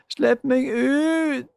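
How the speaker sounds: high, loud, slow roar. A narrator's reading. Julie roaring at Magda to let her out, slow and loud. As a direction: bellow to be let out. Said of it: "brølte Julie".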